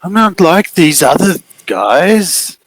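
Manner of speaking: high, very slow wheedling; needy figure. Acted. The figure pleading with Maddie to love it, slow and high. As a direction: coax her, hurt and needy.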